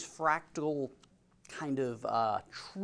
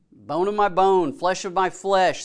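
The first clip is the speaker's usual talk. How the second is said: loud, slow, acted greeting; hearty welcome; 4 semitones higher, 9 dB louder, slower than usual. Laban welcoming his kinsman, hearty welcome. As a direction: proclaim it slowly, higher and louder, as a welcome. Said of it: "and welcomes him".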